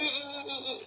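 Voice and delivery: high mock giggle; imitated giggle. Man mimicking the ghost who laughs instead of answering, mock giggle.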